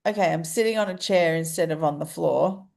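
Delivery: stuffed-up voice through the nose; blocked nose. Real, not acted. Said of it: "I can't breathe through my nose".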